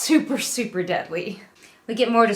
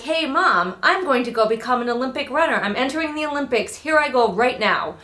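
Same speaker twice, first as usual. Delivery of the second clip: put-on high, quick breezy kid voice; mimicking daughter; 4 semitones higher than usual. Mother voicing her daughter leaving, high and breezy. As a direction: chirp it like an eager child. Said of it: "allowed you to be like".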